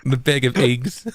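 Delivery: slow, cozy Pixar-movie mom voice; drawn-out bag of eggs like a cartoon mom; Pixar mother. A hint of a Pixar mom saying it for her friend. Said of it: "You sound like a mother".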